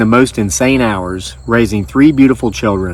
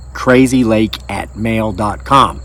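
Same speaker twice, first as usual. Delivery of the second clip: slower repeat of the email address, each word clear; slow, spelled-out address; slower than usual. Shown as a demonstration. Host repeating his email address slowly for viewers. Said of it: "go ahead and email it to us".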